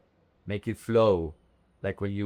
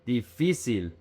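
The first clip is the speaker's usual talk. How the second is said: Difícil with the second syllable stressed, falling at the end; Difícil, teacher's model with a clearly stressed middle. Shown as a demonstration. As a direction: lean on the "fí" in Difícil. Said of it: "attention with the emphasis".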